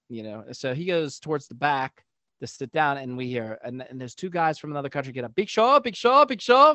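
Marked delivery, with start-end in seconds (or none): 5.4-6.7 high, loud repeated chant; imitated excited calling-out, punched each time; excited fan shouts. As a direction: call out like starstruck fans. Foreign fans spot Big Show, run over.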